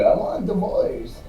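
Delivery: half-voiced imitation of a whining wife; lightly mimicked wife voice. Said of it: "that voice".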